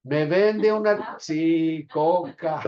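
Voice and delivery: lightly voiced child customer; child at the store. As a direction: act out a little girl asking the shopkeeper. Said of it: "¿Qué es lo que va a llegar diciendo a la tienda?".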